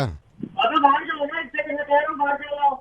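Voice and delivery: the fed-up newlywed, pitched a little down; lightly voiced young groom.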